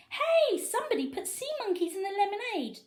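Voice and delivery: high, loud crowd shout; shouting fans. A narrator's reading. Fans shouting at the game, high loud call. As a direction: yell it across the stands. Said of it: "people shouting everything from".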